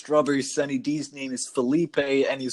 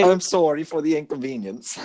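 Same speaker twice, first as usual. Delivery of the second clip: hammed-up Canadian "sorry"; mock Canadian accent; 3 semitones higher, 3 dB louder than usual. Apologetic Canadian mafia after a robbery, mock Canadian accent. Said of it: "I just got the sorry".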